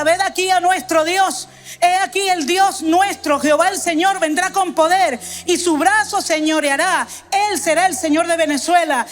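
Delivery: preaching at full force. Acted. Preacher calling Venezuela to hear, booming. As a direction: lift the voice and proclaim to the nation. Preacher proclaims Isaiah 40 loudly.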